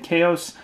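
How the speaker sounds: "Chaos" said the way some others say it; the alternative pronunciation of "Chaos". Shown as a demonstration. Reading out a pack name to viewers, other pronunciation of "Chaos". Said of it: "Some people say Chaos".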